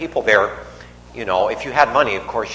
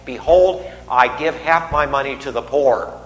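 proclaiming out loud. Retold or imitated. Zacchaeus stands his ground before the crowd, proclaiming out loud. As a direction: announce it to the whole crowd. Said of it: "says out loud, as loud as Jesus".

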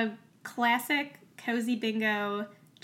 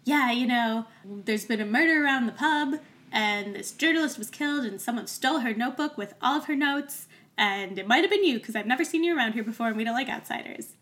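a touch of a bad British copper voice; lightly hammed British constable accusing outsiders, rushing the end; terrible British accent. Podcaster imitating the constable accusing newcomers, light British accent. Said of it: "my terrible British accent".

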